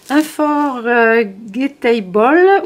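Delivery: English title said slowly with a French accent. Real, not acted. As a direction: read the English word the French way, carefully. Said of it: "excusez mon accent". (Unforgettable prononcé avec l'accent français)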